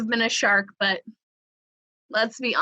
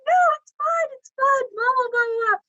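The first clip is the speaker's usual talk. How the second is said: dismissive. Retold or imitated. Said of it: "I'm like".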